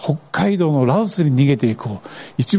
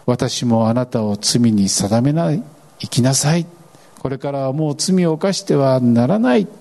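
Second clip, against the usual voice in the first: gentle Jesus. Retold or imitated. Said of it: "イエスは言われた".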